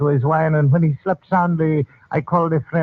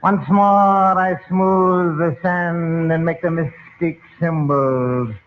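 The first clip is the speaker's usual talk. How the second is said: mystic incantation; slower than usual. Acted. Fortune teller's sand ritual.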